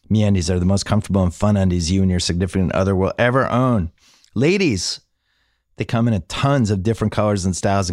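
measured host-read sponsor spot; podcast ad read. Acted. Host pitching MeUndies to podcast listeners, conversational ad read. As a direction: read the sponsor copy conversationally, with deliberate pauses.

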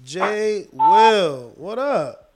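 loud, happy hello; excited greeting. Real, not acted. Host greets a caller.

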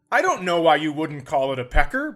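ordinary talk, nothing marked

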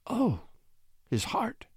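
soft, high grieving whisper. A narrator's reading. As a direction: whisper it as a small lament. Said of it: "she whispered".

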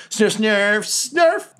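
high, squeaky goblin noises. Acted. Goblin Junior saluting the captain, goblin voice. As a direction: yelp it high like a little goblin, rising. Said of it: "And Goblin Junior's like".

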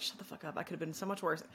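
hushed self-scolding whisper; under-the-breath reprimand. Retold or imitated. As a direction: whisper it to yourself, catching yourself. Scolding herself silently.

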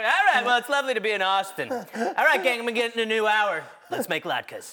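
lightly voiced comic on stage, upbeat; impression of Sam on stage. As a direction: open a stand-up set, chipper. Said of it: "As soon as you get out there".

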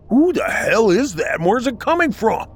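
shouted in alarm, high and loud; yelling. A narrator's reading. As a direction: yell it out in panic. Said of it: "John yelled".

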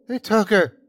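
high, loud desperate cry. A narrator's reading. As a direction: cry it out in anguish. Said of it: "the sickly man cried once more".

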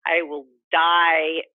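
slow, emphatic vow, DIE hit loud; grim, pained determination, drawn out slowly; real anger and pain. Real, not acted. Grieving mother vows to fight for her son, angry and pained. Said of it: "the anger and the pain in your voice".

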